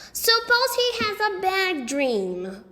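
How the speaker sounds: put-on high, slow worried little boy. A narrator's reading. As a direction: fret like a small child. Narrator voices Fudge.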